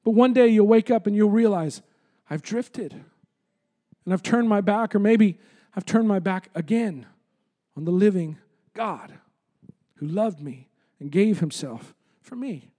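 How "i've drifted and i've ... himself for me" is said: low, subdued imagined confession; sombre realisation. Retold or imitated. Preacher voicing one who wakes up having drifted, sombre realisation.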